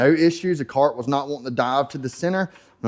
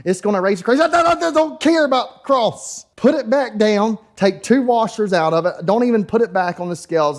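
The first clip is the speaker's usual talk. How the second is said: imitating Thug Life; 7 semitones higher than usual. Thug Life tells the racer what to fix, high mock voice. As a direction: lay down the law, pitched way up. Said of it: "Well, Thug Life".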